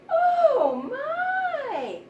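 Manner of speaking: high, loud cry of oh my; delighted surprise. A narrator's reading. Woman finding the pretty ribbon, delighted high gasp. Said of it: "said the woman".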